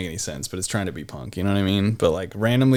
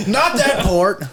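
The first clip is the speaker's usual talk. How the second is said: loud, high shouted correction; drill sergeant; 11 semitones higher, 6 dB louder, slower than usual. Pretend. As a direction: yell it like a drill instructor. Joins the drill sergeant bit.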